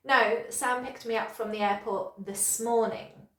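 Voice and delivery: "this morning" stands out as the corrected detail; corrective stress. Shown as a demonstration. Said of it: "use sentence stress to correct somebody".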